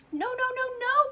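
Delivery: high, loud panicked nos; alarmed cry. A narrator's reading. Candy maker trying to stop the boy, a loud panicked cry. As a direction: try to stop him in alarm. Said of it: "cried Mister Wonka".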